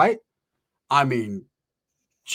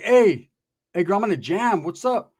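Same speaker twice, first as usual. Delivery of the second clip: awkward high greeting; 4 semitones higher than usual. Retold or imitated. Awkward greeting coming out of bathroom.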